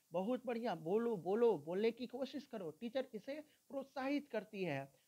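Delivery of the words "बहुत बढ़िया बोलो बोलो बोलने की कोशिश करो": encouraging teacher. Acted. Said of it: "उसे encourage करती है".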